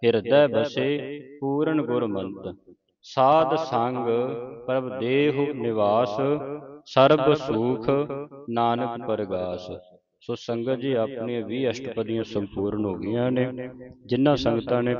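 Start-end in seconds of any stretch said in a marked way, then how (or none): 0.0-9.7 scripture recitation. Acted. Teacher reciting Gurbani for students to follow, measured recitation. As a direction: recite each phrase clearly, pausing between phrases.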